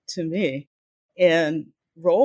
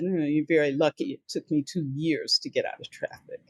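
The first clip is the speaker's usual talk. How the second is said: dry, understated retort, a little lower and softer; 3 semitones lower, 5 dB quieter than usual. Retold or imitated. Creative director to new junior copywriter, very dryly. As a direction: deliver it as a dryly quoted boss. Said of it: "looked at me very dryly and said".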